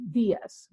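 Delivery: dias with the i stressed, diəs. Shown as a demonstration. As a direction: dias leaning on the í.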